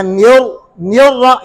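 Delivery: नियर with a thick nun; wrong heavy nun. Shown as a demonstration. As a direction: make the nun heavy as a mistake. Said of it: "ये भी गलत है".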